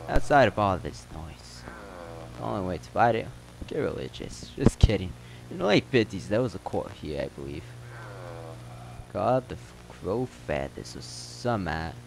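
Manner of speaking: local telling a town legend in a lightly put-on accent; slightly acted storyteller; lightly voiced townsman. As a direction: spin the rumor as an in-game character.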